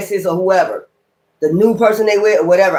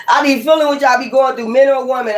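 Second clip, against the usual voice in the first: laughing; 4 semitones higher than usual. Real, not acted. Repeats the line laughing.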